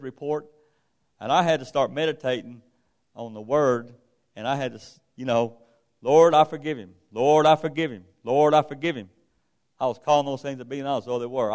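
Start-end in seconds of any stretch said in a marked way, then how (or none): 6.0-9.1 louder, repeated plea to the Lord; emphatic prayer declaration. Retold or imitated. Believer telling the Lord he forgives the neighbor, emphatic re-enacted prayer. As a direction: declare forgiveness firmly, each time as a full statement.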